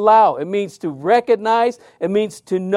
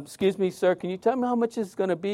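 timid question; 8 dB quieter, faster than usual. Retold or imitated. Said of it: "I said".

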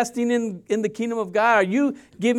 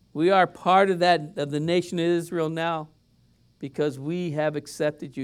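closing prayer; 2 semitones lower than usual. Acted.

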